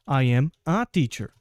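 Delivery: slow, careful "I am a teacher" with a clear "a"; slow example sentence. Shown as a demonstration. Teacher slowly modelling the article before teacher. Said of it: "Por exemplo".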